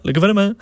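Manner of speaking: gouvernement with the ne said clearly; sounding out words. Shown as a demonstration. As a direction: say gouvernement as gou-ver-ne-ment. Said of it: "Le ne".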